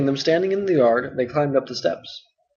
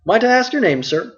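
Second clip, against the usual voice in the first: a louder, bustling landlord voice; hearty and full of chatter; talkative innkeeper Butterbur; 8 semitones higher, 5 dB louder than usual. Acted. Butterbur puzzling.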